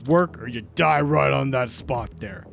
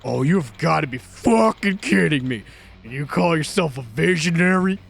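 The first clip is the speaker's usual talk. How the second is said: louder, snarling abuse; raging boss; 3 dB louder than usual. Acted. Producer raging at the developer who quit, snarling. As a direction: tear into him for quitting.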